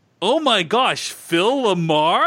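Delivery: really loud, high, drawn-out exclamation. Recounting seeing a famous person and calling out: retelling a really loud exclamation. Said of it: "I said it like really loudly".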